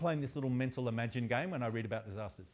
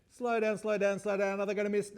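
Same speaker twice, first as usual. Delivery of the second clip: high, louder urgent pleading; raised-pitch anxious cries, acted; mock alarm; 8 semitones higher, 5 dB louder than usual. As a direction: play a crew panicking before a crash. Acting crews before the collision.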